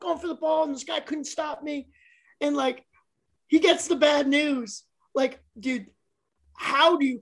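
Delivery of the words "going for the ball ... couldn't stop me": imitating fired-up player. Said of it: "all fired up".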